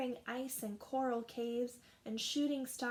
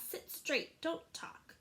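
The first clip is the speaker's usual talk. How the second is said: stern teacher; 5 semitones higher, slower than usual. Acted. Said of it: "telling the class".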